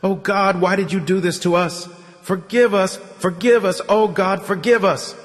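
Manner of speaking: high, pleading cry to God; high-pitched, insistent plea; desperate begging. Acted. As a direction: beg for forgiveness in anguish. Dying man begs forgiveness.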